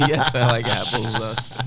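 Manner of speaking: holding tongue with fingers. Retold or imitated. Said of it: "hold your tongue when you say".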